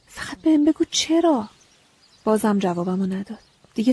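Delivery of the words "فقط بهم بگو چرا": high, slow desperate begging; pleading. A narrator's reading. Girl begging the silent scarecrow, high pleading. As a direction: beg him to answer, slowly. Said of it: "التماس کردم".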